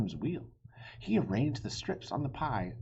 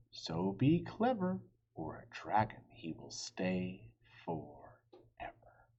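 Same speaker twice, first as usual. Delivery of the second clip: poem reading. Acted.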